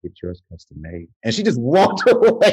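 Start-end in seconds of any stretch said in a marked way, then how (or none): 0.0-1.1 low, soft monotone director voice; mock cold funeral director. Funeral director coldly refusing the auntie, low and soft. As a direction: play it dull and lower, flat of life. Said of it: "the lady was like".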